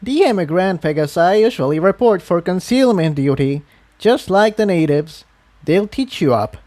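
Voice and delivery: matter-of-fact and friendly; old mare explains concealment duty to newcomer; smiling old mare. Acted. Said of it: "The earth pony smiled".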